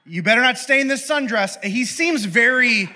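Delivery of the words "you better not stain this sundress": higher, laughing mock fuss; fussy shepherd. Shepherd fussing at the angel, laughing and high. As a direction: play it as a prissy complaint. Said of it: "shepherd voiced, laughing".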